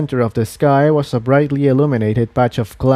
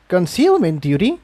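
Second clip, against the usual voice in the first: a bit higher, lightly voiced young mare asking; puzzled question; 5 semitones higher than usual. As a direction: echo it back, confused. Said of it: "Tiptoe asked".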